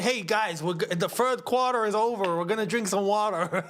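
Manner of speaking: light, teasing American announcer impression; jokey imitation of American speech; mock American accent. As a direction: play a chummy American calling a water break. Mimics American announcing quarter break.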